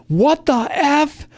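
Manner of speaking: high, drawn-out mock shock; imitated freak-out. Player spots herself in the ancient book, imitated freak-out. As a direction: squeal it slowly in disbelief, playing the player. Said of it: "she's freaking out".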